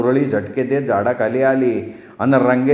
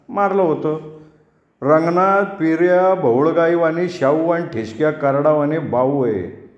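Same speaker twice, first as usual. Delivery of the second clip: mild sermonizing elder voice; lightly voiced village elder; 3 semitones higher than usual. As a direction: scold the young landlord like an elder.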